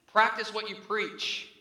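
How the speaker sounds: loud, slow, stern rebuke; God's rebuke. Retold or imitated. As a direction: hammer each word like a divine scolding. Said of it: "you know what God literally smacked me across the face with".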